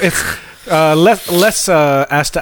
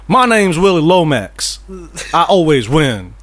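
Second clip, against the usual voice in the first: slow Southern drawl impression; mock Southern accent. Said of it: "this southern".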